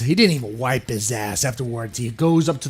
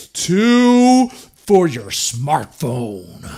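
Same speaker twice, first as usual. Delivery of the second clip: higher, pushy keynote pitch that stretches the reveal slowly; hammed-up hype announcer; 4 semitones higher, 4 dB louder, slower than usual. Company hyping a new Mario at a press release, cheesy announcer voice.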